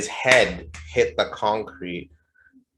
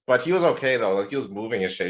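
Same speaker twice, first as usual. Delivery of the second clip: normal talking voice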